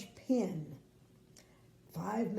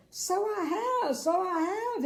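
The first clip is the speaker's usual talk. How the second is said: giggling king; 11 semitones higher, 7 dB louder than usual. Acted. King giggles at his first laugh, very high. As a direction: giggle it with delight. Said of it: "he giggled".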